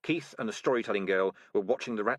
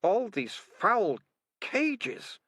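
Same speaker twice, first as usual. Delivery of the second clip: put-on girl staring; 12 semitones higher, much slower than usual. A narrator's reading. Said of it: "said Militia, staring".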